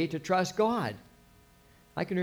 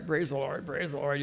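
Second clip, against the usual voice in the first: fakey praise; 5 dB quieter than usual. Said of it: "we don't mean in a fakey way".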